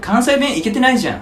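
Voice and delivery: high, loud mock Tokyo accent; exaggerated Tokyo-accent scoff; put-on standard Japanese. Shown as a demonstration. Playing a Tokyoite mocking Kansai dialect, exaggerated standard Japanese. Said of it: "標準語喋ろうと思うと".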